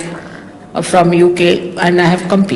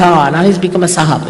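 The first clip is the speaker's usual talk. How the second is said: mocking; faster than usual. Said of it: "they say".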